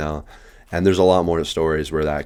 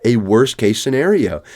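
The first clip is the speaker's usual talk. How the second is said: panicked outburst; 8 semitones higher, 4 dB louder than usual. Retold or imitated. Panicking, both high at work.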